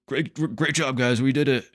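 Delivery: lightly hammed-up, stammered self-congratulation; Kendall's mock congratulations. Podcaster imitating a man congratulating his siblings on the deal, mock upbeat.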